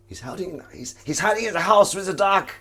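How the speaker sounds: high, loud mock radio line; misheard radio quote. Retelling Carl on the radio, high mock voice. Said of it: "Carl says something like".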